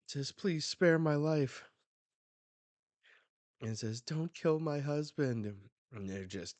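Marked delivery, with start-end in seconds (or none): 0.3-1.6 loud, high, drawn-out plea; acted desperate cry; begging for life. Voicing victim begging for life. 4.0-5.7 raised, louder, slow plea; acted frantic begging; desperate wife. Voicing wife pleading in manga.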